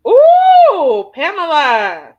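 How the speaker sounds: high, loud drawn-out ooh, then slow "Pamela"; loud mock-scandalised ooh; teasing ooh. Real, not acted. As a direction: tease her about the question. Reacting to spicy question.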